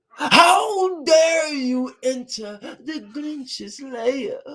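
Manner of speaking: high, slow, theatrical hammed-up Grinch; Grinch impression. Streamer recites the Grinch to Cindy Lou, high and slow villain voice. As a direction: ham up the Grinch scaring a little girl. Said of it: "he's like".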